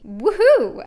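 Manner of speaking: sarcastic loud whoop; mock cheer. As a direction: cheer it with fake glee.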